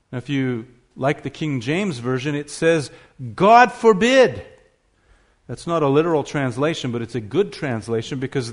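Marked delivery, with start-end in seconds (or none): 3.3-4.5 "God forbid" loud, high and slow, bearing down on "God"; strong negative. Acted. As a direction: cry it out as a forceful denial. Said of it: "to show the strength of that".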